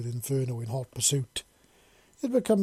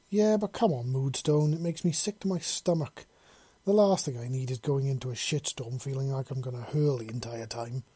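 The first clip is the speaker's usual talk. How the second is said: whining. Acted. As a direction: moan about feeling sick. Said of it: "Spike said in a whining voice".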